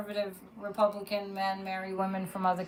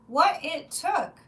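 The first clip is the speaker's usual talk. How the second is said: "What it took" slower, higher, louder; stressed repeat; 6 semitones higher, 5 dB louder, slower than usual. Real, not acted. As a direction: lean hard into "What it took". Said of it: "repeated louder and slower".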